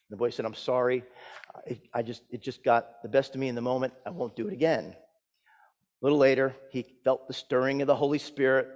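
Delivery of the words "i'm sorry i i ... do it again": softly voiced, halting apology; meek apology. Boy to usher after his outburst, meek apology. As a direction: apologise under your voice, a little sheepish.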